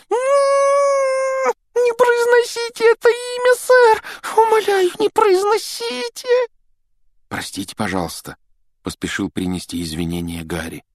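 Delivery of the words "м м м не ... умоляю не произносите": high shouted elf howl, slow at the end. Acted. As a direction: cover your ears and wail in fear. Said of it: "зажал уши и взвыл". (воет от страха тонким голосом)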